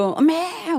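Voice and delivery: high drawn-out mock bleat; imitated animal cry. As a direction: imitate livestock bleating in a crowded market. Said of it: "짐승들 막 꽥꽥".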